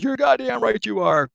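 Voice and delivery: high, loud hearty shout; approving shout. Retold or imitated. Shellback roaring approval at the new shellback, hearty shout. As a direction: roar your approval like a boisterous old sailor. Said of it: "and the guy goes".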